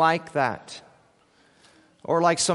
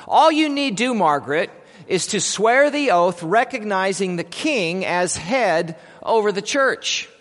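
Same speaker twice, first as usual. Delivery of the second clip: judges' offer; 3 semitones higher, 3 dB louder than usual. Acted. Judges offer freedom at trial.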